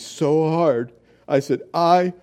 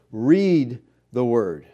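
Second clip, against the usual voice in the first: slow emphatic command; 3 semitones lower, much slower than usual. Shown as a demonstration. Preacher urging his congregation, slow emphatic command. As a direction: read the Word, drawn out slowly. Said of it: "listen, people".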